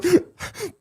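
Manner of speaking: high, choked-up gasp; mock breakdown gasp. Host imitating the sheriff breaking down before his friends, mock choked gasp. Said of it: "and he goes, ... he breaks down".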